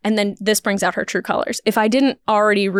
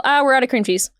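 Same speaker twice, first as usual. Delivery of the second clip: blunt New York clerk; 2 semitones higher than usual. Retold or imitated. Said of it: "In New York".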